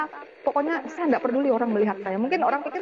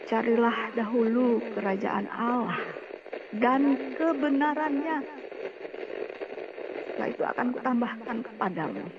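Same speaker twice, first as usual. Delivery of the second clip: divine voice. Retold or imitated. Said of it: "satu suara yang berkata".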